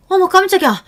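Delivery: high, loud startled cry; startled gasp. Acted. Aunt startled by niece in the dark kitchen, high loud cry. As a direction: jump out of your skin. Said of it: "놀라셨는지 눈이 커졌습니다".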